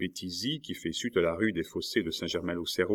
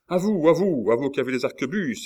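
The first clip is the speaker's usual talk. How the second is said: high, loud, rapid call; urgent cry; 7 semitones higher, 5 dB louder, faster than usual. A narrator's reading. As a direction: urge the gunmen on, fast. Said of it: "s'écria Coconas". (appel crié, aigu et pressé)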